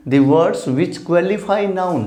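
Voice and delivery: each word spaced out for the class; slow teacher's dictation of a definition. Shown as a demonstration. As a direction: spell out the definition slowly. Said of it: "adjective क्या होते हैं".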